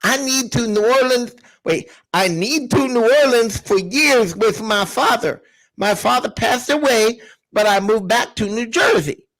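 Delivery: reading out with a toothless lisp; mock lisp. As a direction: read it literally, words slurred through a lisp. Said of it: "I don't know what that word's supposed to be".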